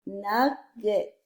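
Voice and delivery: "Nugget" in two separate syllables. Shown as a demonstration. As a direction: say "Nugget" as nug, pause, get. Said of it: "Blend and say the word".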